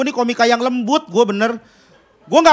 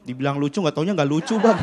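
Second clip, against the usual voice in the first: timid mumble; 9 semitones lower, 6 dB quieter than usual. Acted. Timid prisoner confessing.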